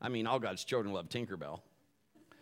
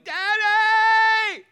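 put-on high, loud terrified little girl cry; little daughter yelling for her dad from the hospital crib; child yelling; 13 dB louder, much slower than usual. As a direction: scream it like a frightened child being wheeled away. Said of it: "and she was yelling".

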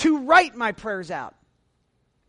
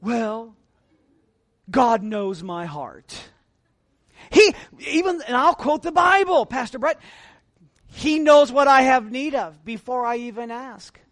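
mock pious excuse. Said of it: "And then I get real religious".

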